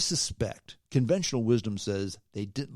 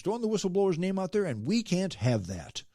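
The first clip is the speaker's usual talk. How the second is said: a lightly voiced mock critic, higher; mock the gloating critics; 8 semitones higher than usual. Mocking those glad he was banned, light put-on voice.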